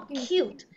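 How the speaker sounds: "Cute" said softly and clearly, as the right way; correct pronunciation. Shown as a demonstration. Teacher modelling "Cute" for the student. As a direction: show the class how "Cute" sounds. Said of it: "Cái từ dễ thương mình đọc là cute".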